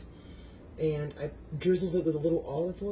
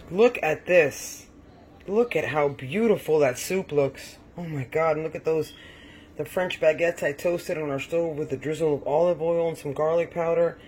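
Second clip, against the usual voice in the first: excited showing off; 6 dB louder than usual. Real, not acted. Cook showing viewers her finished soup, loud and proud.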